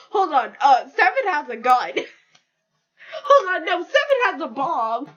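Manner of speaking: laughing, rising excitement; excited. Real, not acted. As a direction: build up giddy and loud. Escalating story excitedly.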